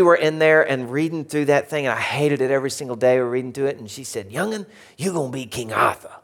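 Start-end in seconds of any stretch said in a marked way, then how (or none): 4.3-6.1 lightly mimicked Cajun schoolteacher; a hint of an old Cajun teacher; Miss Billingsley. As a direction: assign it in a put-on Cajun accent. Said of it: "She had a strong Cajun a-, accent".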